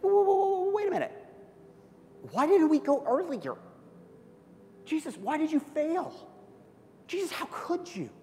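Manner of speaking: high, loud, frantic protest; panicked, accusing outcry; shocked disciples. Acted. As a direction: cry out like stunned, grieving disciples. Disciples' emotions acted out.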